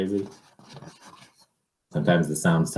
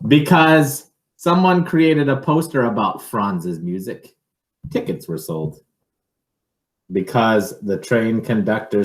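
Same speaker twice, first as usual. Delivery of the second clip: animated read-aloud, some phrases louder; picture book reading; 5 semitones higher, 6 dB louder than usual. Acted. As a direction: tell the story to a child, building it up.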